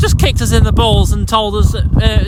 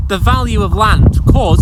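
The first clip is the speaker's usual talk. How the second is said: "could" pushed louder and rising; stress on could; 4 dB louder than usual. Real, not acted. Farmer warning about land prices, stressing "could". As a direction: lean on the word "could". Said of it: "I emphasise the word could".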